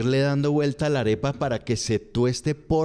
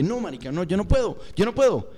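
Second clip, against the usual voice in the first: higher-pitched mock giving up; exasperated refusal; 5 semitones higher than usual. Comedian voices a Colombian defeated by pronunciation, mock exasperation. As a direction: plead helplessly that it can't be done. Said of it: "el colombiano como que".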